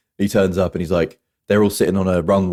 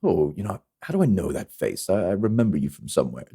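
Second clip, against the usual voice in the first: Ernie Hudson; 6 dB quieter than usual. Retold or imitated. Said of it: "Ernie Hudson keeps saying".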